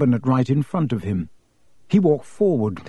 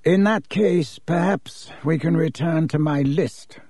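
short; 3 semitones higher than usual. Acted. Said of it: "said Mister Malfoy shortly".

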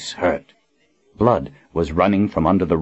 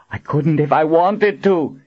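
high, urgent call; 9 semitones higher than usual. A narrator's reading. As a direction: call across to a suffering friend. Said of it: "Colin called out to Kara".

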